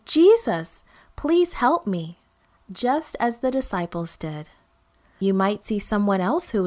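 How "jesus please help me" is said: pleading prayer. Shown as a demonstration. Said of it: "you too can say".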